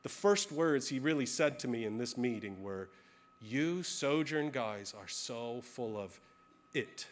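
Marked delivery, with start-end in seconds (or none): 3.4-7.1 calm, gentle. Retold or imitated. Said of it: "He leaned forward real gently, real calmly".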